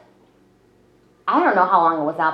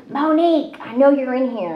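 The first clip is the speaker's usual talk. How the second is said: imitating her dad calling her name, higher and a bit louder; 5 semitones higher than usual. Dad hunting his hiding daughter in a restaurant, mock loud call. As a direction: call out like a dad who knows she's hiding. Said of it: "he's loud and in charge".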